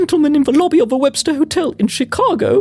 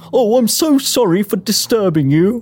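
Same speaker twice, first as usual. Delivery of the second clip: much lower voice for a flustered man; flustered gentleman; 8 semitones lower than usual. Acted. A colleague apologizes for bursting into the shop, flustered. Panicked Walton apologizes to shopkeeper.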